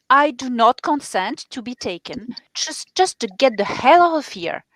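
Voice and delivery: really firm. Shown as a demonstration. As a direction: demonstrate standing your ground. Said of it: "And really firm".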